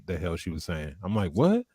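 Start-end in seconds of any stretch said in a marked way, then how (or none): 1.3-1.7 high, sharply rising question; baffled what. Retold or imitated. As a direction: re-enact being totally lost. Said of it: "I did not know what she".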